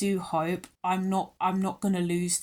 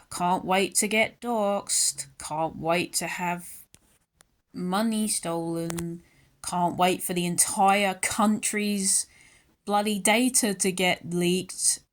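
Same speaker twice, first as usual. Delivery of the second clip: slow, dry sarcasm about getting doxxed; deadpan can't-wait, dripping irony; sarcastic; 3 semitones lower than usual. Real, not acted. Ranting vlogger to viewers, slow sarcastic deadpan. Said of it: "I say this in a joking way".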